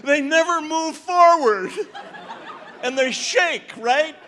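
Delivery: hammed-up quivering small dog voice; Chihuahua imitation. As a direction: play a shaking Chihuahua for laughs. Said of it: "Here's my imitation of a, of a Chihuahua".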